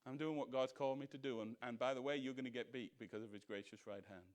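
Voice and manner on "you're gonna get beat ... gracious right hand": defiant retort. Acted. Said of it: "defiant retort to the devil".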